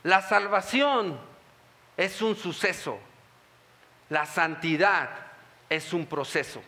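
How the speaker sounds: the Lord speaking. Retold or imitated. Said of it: "el Señor me decía".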